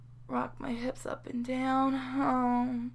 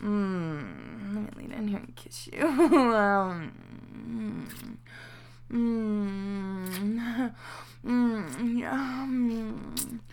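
tender afterglow; 2 semitones lower, much slower than usual. Acted. Affectionate wind-down after climax.

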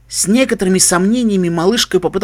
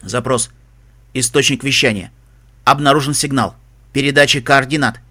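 mechanical status report; robot voice; 5 semitones lower than usual. Acted. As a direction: read like a machine. Computer reports signal. (механический голос)

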